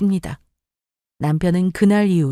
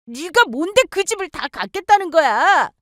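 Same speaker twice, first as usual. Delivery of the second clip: higher, accusing snap; angry sister; 9 semitones higher than usual. Acted. Sister yelling at sister over the house, angry. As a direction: pick a fight over the house.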